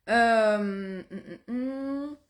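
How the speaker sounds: throat clearing after swallowing wrong; swallowed the wrong way. Real, not acted. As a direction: hum through a throat that went down wrong. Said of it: "J'ai avalé de travers".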